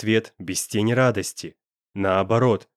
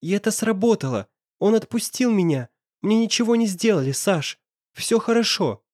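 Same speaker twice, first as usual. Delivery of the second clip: put-on lighter, higher girl's voice, relieved; young woman's voice; 9 semitones higher than usual. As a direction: Nastya comforting Sasha, voiced higher. Nastya voiced by narrator.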